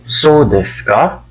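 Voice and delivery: "So desu ka?" with the pitch rising on "ka", asking; "So desu ka?" rising at the end, meaning "is that so?"; rising tune. Shown as a demonstration. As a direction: lift the end of "So desu ka?" like a surprised question. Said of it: "If the intonation is rising".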